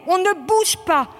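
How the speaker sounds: barked commands. Real, not acted. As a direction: drive the recruits to hold still. Instructor barks during gas drill.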